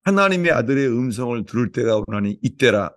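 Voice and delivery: preacher praying with rising fervour; fervent prayer. Real, not acted. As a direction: pray it out over the congregation. Pastor prays aloud before congregation.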